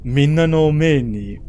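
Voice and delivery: Sai's voice. Acted. Streamer voicing Sai accusing his opponent, dramatic. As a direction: declaim like a wronged go master. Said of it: "so excited to use the voice".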